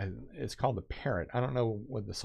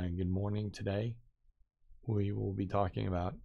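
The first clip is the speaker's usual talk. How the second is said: choppy teleprompter reading; 4 dB quieter than usual. Shown as a demonstration. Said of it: "very short phrases like".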